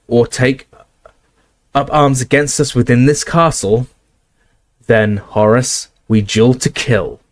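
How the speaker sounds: slowing to a cold, deadly threat; stern McGonagall. Acted.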